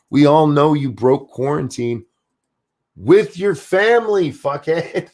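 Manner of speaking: high-pitched exasperated scolding; rising, indignant jab; angry call-out. Acted. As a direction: call his bluff, voice climbing. Berating the host as if present.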